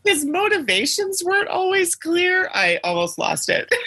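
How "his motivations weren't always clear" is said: words squeezed out through giggles, much higher; laughing while talking. Real, not acted. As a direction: talk while still cracking up.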